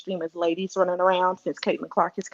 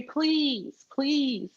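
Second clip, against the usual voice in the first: pleading; 3 semitones higher than usual. Real, not acted. Guest begs Big Daddy about his take, pleading. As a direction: beg with drawn-out, repeated pleases.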